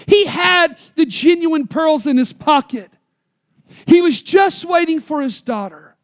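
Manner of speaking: preaching shout. Acted. Preacher reveals the father's gift to the church, ringing. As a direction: proclaim it to the whole church.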